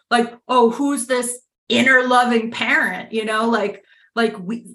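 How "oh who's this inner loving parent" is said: mocking inner critic. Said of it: "my inner critic is like".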